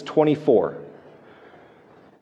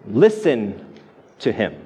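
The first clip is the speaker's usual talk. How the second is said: solemn command; 6 semitones lower, slower than usual. Retold or imitated. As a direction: let each word land as a grave instruction. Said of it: "the voice gives a very direct and simple command".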